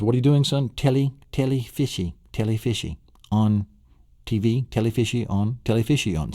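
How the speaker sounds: put-on high, playful little kid voice; a small child chanting at the TV; child's voice. Little boy chanting at the cartoon fish on TV, high and playful.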